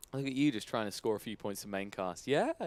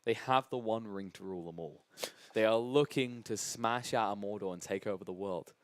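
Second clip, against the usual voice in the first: dramatic narration; 4 dB quieter than usual. Real, not acted. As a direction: build it like a movie trailer. Dramatic Lord of the Rings framing.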